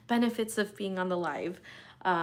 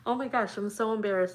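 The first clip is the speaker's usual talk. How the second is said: embarrassed crying; 3 semitones higher, 5 dB louder than usual. Real, not acted. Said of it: "I'm crying on a live".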